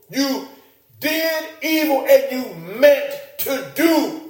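high, slow, weighty charge; Joseph's accusation. Acted. Preacher voices Joseph confronting his brothers, high and slow. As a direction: spell out their premeditated evil.

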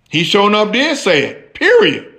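firm, rising on period; a hint of a sure woman; mild Eve voice. Eve answering the serpent, lightly firm. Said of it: "the woman said to the serpent".

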